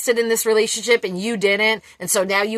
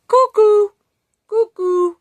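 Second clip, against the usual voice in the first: emphatic cuckoo; 12 semitones higher, 6 dB louder, slower than usual. Real, not acted.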